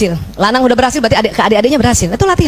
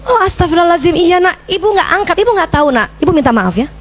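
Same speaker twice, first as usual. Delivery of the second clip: apologetic mother; 5 semitones higher than usual. Retold or imitated. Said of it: "Wah, langsung begitu".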